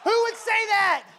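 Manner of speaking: high, loud rhetorical question; incredulous. Real, not acted. Pastor asking the congregation, high and amazed. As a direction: ask it, then answer with disbelief.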